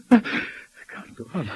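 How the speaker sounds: about to cry, held back; close to tears. Acted. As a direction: let it break into tears. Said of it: "I'm gonna cry".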